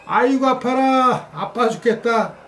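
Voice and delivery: high slow mock wail of pain; hammed-up pain. Dad falling over for his child, hammed-up pain. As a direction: overact the hurt for laughs. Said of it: "헐리우드 액션을 외칩니다".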